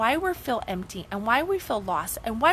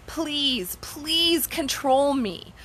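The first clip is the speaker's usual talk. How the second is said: higher-pitched, drawn-out mock begging; mock excited pleading; 5 semitones higher, much slower than usual. Speaker voices someone begging to be controlled, mock excited. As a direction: plead with put-on eagerness. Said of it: "who's actually goes excitedly and says".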